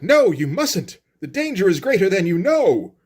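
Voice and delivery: hammed-up comic-book alarm; mock distraught. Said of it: "gonna get very distraught about this".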